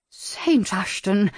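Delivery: slow, breathy gasp of the name; stunned lady breathing his name; breathed. Acted. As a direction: breathe the name out slowly in dismay. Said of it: "Lady Hermione breathed".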